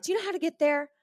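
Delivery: lightly voiced mom, pitched high; high-pitched mock parental questioning; impersonated mom. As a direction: imitate a mom checking up on her teenager. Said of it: "but my mom would be like".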